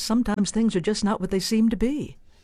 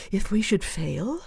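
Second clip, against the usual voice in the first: fearful; 2 semitones higher than usual. Shown as a demonstration. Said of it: "Suppose Macbeth says fearfully".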